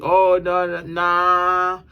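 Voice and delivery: hammed-up squirm of someone making excuses; mock excuse. Imitating a bluffer dodging when asked to show up, mock whiny. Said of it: "then they come with all these excuses".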